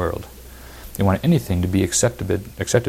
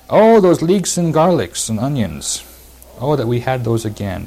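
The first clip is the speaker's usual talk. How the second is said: exaggerated longing, easing down at the end; wistful craving; 5 semitones higher, 4 dB louder than usual. Voicing the Israelites' longing complaint.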